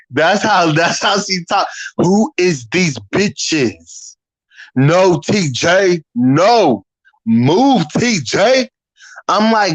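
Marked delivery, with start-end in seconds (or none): 2.0-4.2 very slow, syllable by syllable; talking in syllables. Retold or imitated. Imitating how Leslie talked, in syllables. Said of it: "she talked in syllables". 4.8-8.7 slow, clipped syllables; syllable speech. Retold or imitated. Imitating Leslie pushing past TJ, in syllables. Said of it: "she talked in syllables".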